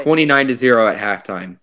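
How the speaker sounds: flat deadpan, no emotion at all; emotionless. Pretend. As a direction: read it like a robot, short and blank. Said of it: "I'm gonna show no emotion whatsoever".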